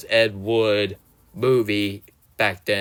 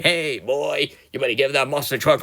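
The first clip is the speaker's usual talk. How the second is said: put-on country accent; 3 semitones higher than usual. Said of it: "his country accent say".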